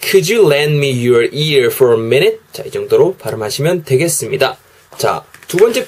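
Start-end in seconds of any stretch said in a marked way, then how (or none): 0.0-2.4 "Could you lend me your ear for a minute?" with linked sounds; teacher showing linking in "Could you lend me your ear for a minute?"; linked English demo. Shown as a demonstration. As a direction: run "Could you" together as "kudju" and link "lend me". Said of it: "한 번만 더 해보면요".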